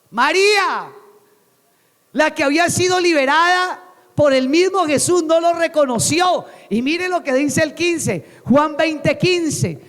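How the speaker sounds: high, emphatic pulpit delivery; impassioned preaching. Acted. Preacher marvels that Mary missed Jesus, impassioned. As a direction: drive it home to the congregation.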